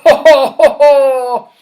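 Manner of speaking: loud jolly laughter; loud royal laughter; hearty laugh. Acted. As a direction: laugh like a merry king. King laughing at play.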